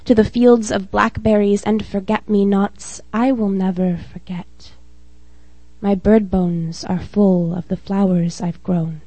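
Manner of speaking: measured spoken-word poem reading; steady, earnest poetry reading; poem recital. Acted. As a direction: read it like a poem at an open mic.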